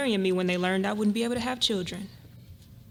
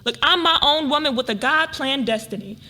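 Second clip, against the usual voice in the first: indignant; 2 semitones higher, 6 dB louder than usual. Acted. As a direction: assert her independence firmly. Bristles at arranged marriage idea.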